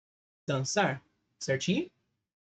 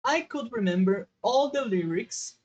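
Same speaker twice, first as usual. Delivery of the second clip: slow teaching read; 4 semitones higher, 4 dB louder, slower than usual. Shown as a demonstration. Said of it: "teacher reads the English".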